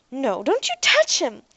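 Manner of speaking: a slow, high, loud warning; shout. Acted. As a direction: bark it to keep the robot away. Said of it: "Ariel shouted".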